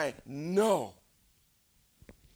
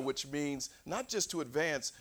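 usual speaking voice

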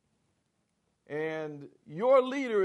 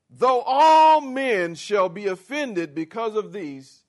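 proud boast; 4 semitones higher, 9 dB louder than usual. Acted. Preacher voicing Peter's boast.

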